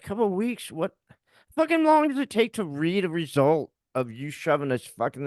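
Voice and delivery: high-pitched, disbelieving echo; retold incredulity. Husband challenging the doctor over the wait, incredulous. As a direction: throw it back as an outraged question.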